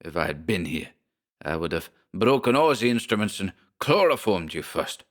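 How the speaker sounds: German rage. Acted. Schmersholt whirls on Briggs, furious German accent. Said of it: "The little German whirled on him".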